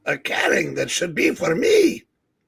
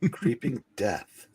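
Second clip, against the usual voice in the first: sinister cheerful ad; 8 semitones lower, 12 dB quieter than usual. Acted. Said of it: "do not use Tuvia if allergic".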